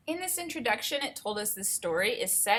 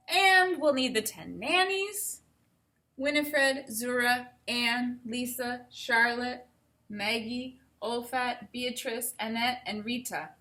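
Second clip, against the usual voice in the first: a grand princess listing her nannies; regal princess; 3 semitones higher, slower than usual. Acted. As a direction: count off the nannies like royalty.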